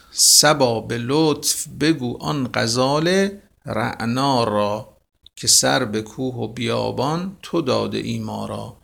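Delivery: slow, measured verse reading; teacher reciting Hafez; poem recitation. Acted. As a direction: recite it like classical poetry.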